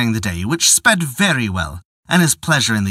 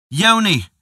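calling higher each time; 6 semitones higher than usual. Acted. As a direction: call her name across the grove. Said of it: "He called".

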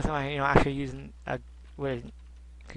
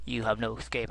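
villain voice; 6 semitones lower, 8 dB quieter than usual. Retold or imitated. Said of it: "He's like".

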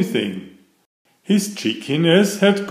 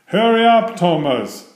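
high, loud impatient call, dropping on the name; cross, raised-voice order; 6 semitones higher, 4 dB louder than usual. A narrator's reading. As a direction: hurry him along crossly. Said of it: "said Gordon crossly".

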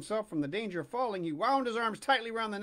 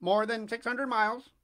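calling pigeon; 4 semitones higher, 5 dB louder than usual. Acted. Pigeon voiced.

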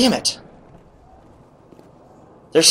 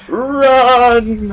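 urgent yell; 11 semitones higher, 4 dB louder than usual. Real, not acted. Urging himself to flee.

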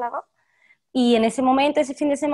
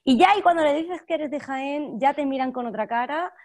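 higher-pitched, animated neutral Castilian; neutral Castilian accent; 6 semitones higher than usual. Shown as a demonstration. Actress imitates doubtful casting staff, still in neutral Castilian. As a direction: keep the Castilian while mimicking casting people. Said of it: "te voy a hablar con el castellano neutro".

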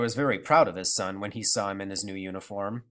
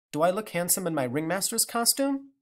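put-on child voice; 6 semitones higher than usual. Child Bruno asks.

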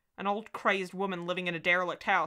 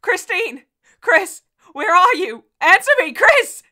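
much higher, much louder frantic screams; screaming; 13 semitones higher, 19 dB louder, slower than usual. A narrator's reading. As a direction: scream her name through the empty house. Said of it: "my own voice of the past screaming".

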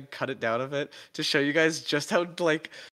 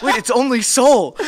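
surprised; 7 semitones higher, 10 dB louder than usual. Retold or imitated. Acting out her own surprise.

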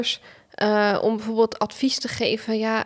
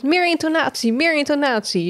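much higher, bouncy lecturing voice; mock the coach pushing for expression; exaggerated intonation; 6 semitones higher than usual. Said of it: "Want jij zegt altijd".

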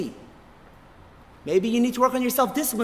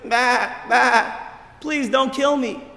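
timid sheep plea; much slower than usual. Acted. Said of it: "looks up at this fierce lion and says".

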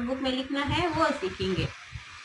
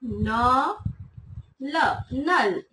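slow blending; much slower than usual. Shown as a demonstration. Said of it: "एक बार फिर लिखते हैं".

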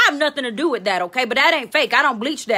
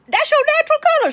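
emphatic cheer; 4 dB louder, faster than usual. Acted. Reassuring viewers, voice jumps high.

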